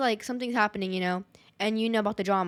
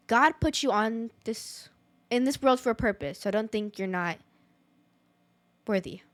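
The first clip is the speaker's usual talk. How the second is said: shaky, emotional voice. Real, not acted. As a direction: voice shaky, close to tears. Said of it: "like, shaky".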